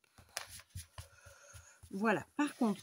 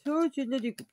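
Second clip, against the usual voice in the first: louder and higher on "Ça, c'est de la découpe"; mock proud exclaim; 4 semitones higher, 6 dB louder than usual. Shown as a demonstration. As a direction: show off an ironic cutting job.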